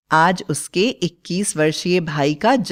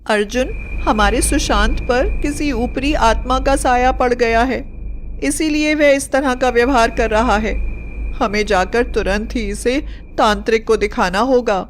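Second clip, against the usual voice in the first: frightened mother; 4 semitones higher than usual. Acted. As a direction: urge your son in fear of a spirit. Frightened mother urges exorcist. (डरी हुई माँ की ऊँची, बेचैन आवाज़)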